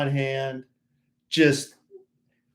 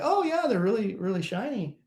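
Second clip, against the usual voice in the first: retold gushing clerk; 6 semitones higher than usual. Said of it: "They're like".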